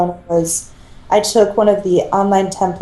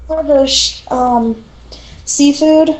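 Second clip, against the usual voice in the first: lively teasing; 8 semitones higher, 3 dB louder than usual. Real, not acted. Teasing question, raised.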